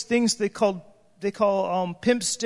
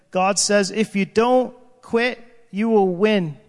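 prophetic declaration; 5 dB louder, slower than usual. Retold or imitated. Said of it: "she said".

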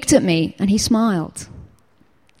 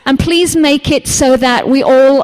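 pleading prayer; 4 semitones higher than usual. Retold or imitated. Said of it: "I went".

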